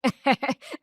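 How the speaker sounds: short teasing laugh; mocking chuckle before a jibe. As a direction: laugh at his sandals. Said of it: "हंसते हुए कहती है".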